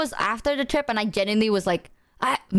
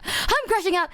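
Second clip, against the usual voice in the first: mock crash-out; 8 semitones higher than usual. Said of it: "we're like".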